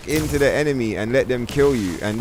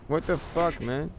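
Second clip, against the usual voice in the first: light, soft hopeless murmur, much quieter and higher; really light tone; 5 semitones higher, 7 dB quieter than usual. Real, not acted. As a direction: let it float out lightly, all hope lost. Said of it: "in a really light tone like that".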